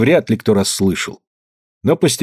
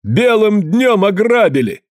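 higher, slow, outraged shout; outraged cry; 10 semitones higher, slower than usual. A narrator's reading. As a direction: cry out that they were robbed. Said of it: "заорал Калистрат Зотов".

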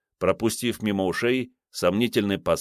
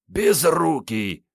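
grumbled insult; 8 semitones higher, much slower than usual. Acted. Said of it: "пробурчал под нос".

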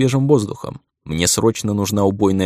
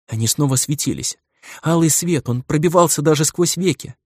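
frightened telling; 5 semitones higher than usual. Acted. Girl explains frightened, high voice.

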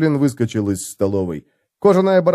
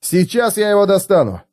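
high, eager exclamation; exclaiming; 8 semitones higher than usual. A narrator's reading. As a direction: call it out eagerly. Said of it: "воскликнул Феликс".

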